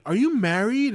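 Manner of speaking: high, curious mock girl voice; lightly voiced tipsy passenger perking up; imitating drunk woman. Drunk passenger asks driver.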